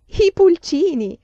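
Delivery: grido acuto e felice, lento e allungato; gioia per i pulcini. Acted. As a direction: esplodi di gioia alla vista del cesto. Laura scopre i pulcini. (esclamazione entusiasta, molto più alta e forte)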